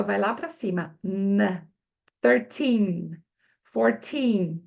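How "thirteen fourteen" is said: Thirteen with the mouth opened wide and the final N firm on the palate; exaggerated mouth. Shown as a demonstration. Teacher exaggerates Thirteen so learners can see the mouth. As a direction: overdo Thirteen, tongue up for the N. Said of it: "abrindo a boca exageradamente".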